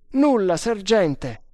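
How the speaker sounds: high, slow, loud reply; calling back. A narrator's reading. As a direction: call it up to the sergeant, drawn out. Risposta gridata al sergente dal basso. (risposta a gran voce, lenta e acuta)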